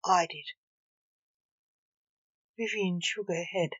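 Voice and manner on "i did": snapped. Acted. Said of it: "The Reaper snapped back".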